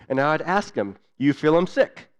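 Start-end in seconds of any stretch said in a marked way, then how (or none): 1.2-2.1 rising question in Tok Pisin, a little higher and louder; lightly voiced doctor's question; doctor asking in Pidgin. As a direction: ask the patient kindly in broken Pidgin. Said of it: "share with you a little bit of what that was like".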